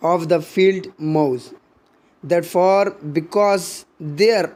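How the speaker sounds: slow, measured sonnet reading; poem recitation. Acted. Teacher reciting a sonnet to the class, slow and measured. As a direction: savour each line of the poem slowly.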